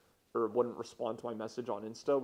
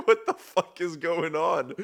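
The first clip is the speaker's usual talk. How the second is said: mock bafflement; 6 semitones higher, 10 dB louder, slower than usual. Baffled reaction to caller.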